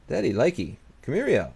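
high, loud, pleased; greedy gloating. Pretend. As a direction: gloat over the cash. Gloating over money received.

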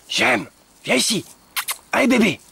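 high sing-song dog-coaxing voice; high coaxing call. Real, not acted. Owner urging her dog to hurry, high and coaxing.

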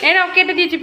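laughing. Real, not acted. Laughing while cutting hair.

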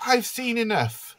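high-pitched acted distress; a hammed-up tearful cry, pitched right up; mock sobbing.

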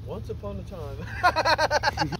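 storyteller voice. Pretend. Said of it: "I said story".

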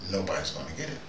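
normal talking voice

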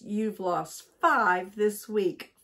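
loud, slow, scolding; wife scolding husband over lost hankies, loud and slow; cross wife. Acted. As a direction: lay the blame on him deliberately. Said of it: "as she always did when she was cross".

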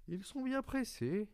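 put-on a child amazed at the rushing trains; astonished child. Little prince marvelling at the trains to the switchman.

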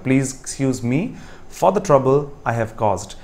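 very slow and deliberate repeat. Shown as a demonstration. Teacher slowly repeating the correct sentence to students. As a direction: say it again slowly, word by word. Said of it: "I repeat".

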